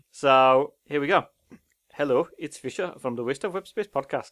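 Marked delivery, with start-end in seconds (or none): 2.0-4.3 Indian accent, put on. Doing a series of accents, guessed by the other speaker: put-on Indian accent. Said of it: "It's Indian, that".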